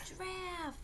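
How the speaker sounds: mock-surprised whisper for the toddler; whispered gasp. Reading a picture book to the baby, whispered surprise. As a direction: gasp then whisper giraffe.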